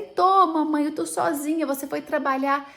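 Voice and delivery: put-on high, tearful little-girl voice in play; aunt as the crying daughter, answering the pretend mom. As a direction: sob it out like a child left behind. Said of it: "Eu comecei a chorar".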